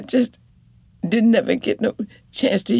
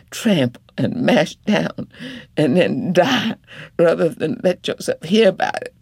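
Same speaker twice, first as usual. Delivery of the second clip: indignant wife; 3 semitones higher than usual. Acted. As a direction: refuse to hush, lay it all out. Wife voiced, rising anger.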